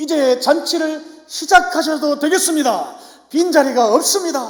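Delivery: triumphant voice.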